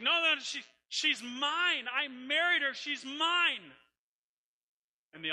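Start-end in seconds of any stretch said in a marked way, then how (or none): 0.0-3.7 much higher and louder, pleading cry; desperate outcry. Acted. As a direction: shout it across the crowd, slowly at first. Hosea insists against the crowd.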